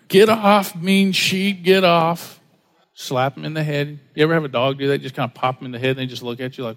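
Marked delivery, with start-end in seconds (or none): 0.1-2.4 mock shooing off. Shooing away a biting sheep.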